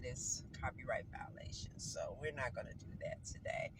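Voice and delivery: whispering. Real, not acted. Secretive aside about copyright.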